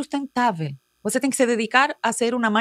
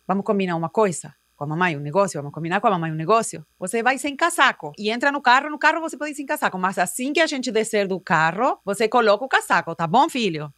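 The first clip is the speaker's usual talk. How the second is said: coaxing mother; 2 semitones lower than usual. Retold or imitated. Mother coaxing child, lower.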